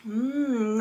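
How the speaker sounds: sipping hot tea between words; slurping tea. Real, not acted. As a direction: slurp the tea, then speak. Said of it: "Sorry, I'm slurping".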